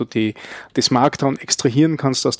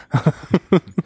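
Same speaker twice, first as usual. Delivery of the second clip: suppressed laugh; 5 semitones higher than usual. Real, not acted. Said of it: "das war ein, ein unterdrücktes Lachen".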